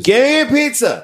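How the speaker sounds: put-on very high, loud drunken squeal; drunk demand. Drunk woman ordering around non-waiters, high loud demanding squeal. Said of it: "you order people who are not waiters".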